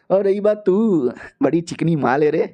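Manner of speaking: ogle her with the words; hammed-up lecherous husband; leering creep. Husband leers at wife.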